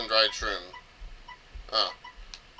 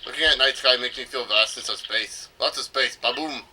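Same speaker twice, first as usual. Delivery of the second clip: mock Russian accent. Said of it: "it wasn't a Russian accent".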